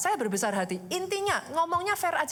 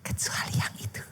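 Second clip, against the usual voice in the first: God's warning; 6 semitones lower, slower than usual. Acted. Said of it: "Tuhan ngomongnya gini".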